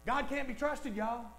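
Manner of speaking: quiet, insinuating take; hushed devil's whisper-lie. Retold or imitated. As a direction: slip it in quietly like a secret. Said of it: "That's what the devil wants".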